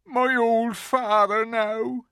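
loud, slow, high lament; hammed-up miserable bawl; wailing. A narrator's reading. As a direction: wail tearfully as the guilty faun. Faun wails on in his sobbing.

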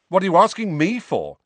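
loud, high snapping retort; sharp retort. A narrator's reading. Harry snapping back at Seamus in the dorm, loud and sharp. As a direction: throw the question back hard. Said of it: "Harry retorted".

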